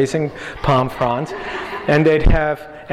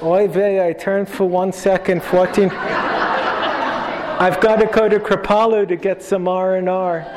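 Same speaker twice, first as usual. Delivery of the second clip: put-on Yiddish accent; 4 semitones higher than usual. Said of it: "God's attitude was like".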